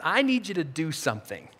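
low, soft, with weight on "I"; quietly ask, leaning on "I need"; gentle request. Acted. Jesus speaking to his followers, gentle and low. Voicing Jesus, first take.

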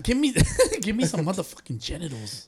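laughing through the words; can't keep a straight face; cracking up mid-line. Real, not acted. Joking about team name.

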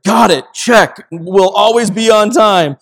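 put-on slow, loud, dutiful kids' answer; mock the boys obediently agreeing; kids' meek reply. Sons humoring their frustrated dad, slow and dutiful. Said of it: "And they're just like".

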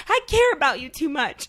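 high, loud mock outburst; retold freak-out. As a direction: yell it as if freaking out at a boyfriend. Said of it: "like, freaking out at him".

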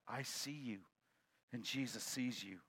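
quiet voice. Acted. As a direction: say it hushed from the dark. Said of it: "a voice comes back".

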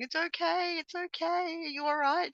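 put-on high, gently reassuring child; imitated comforting son. Mother retelling her son comforting his sister, imitated reassurance. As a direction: soothe like a child hugging a sister. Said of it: "giving her a hug".

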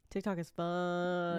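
slow, soft echo repeat. Shown as a demonstration. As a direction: echo the phrase back slowly. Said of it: "forgot to do the echoing voice".

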